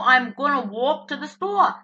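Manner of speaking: "walk" and "store" in her New Jersey vowels; New Jersey accent. Shown as a demonstration. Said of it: "People tell me I speak New Jersey".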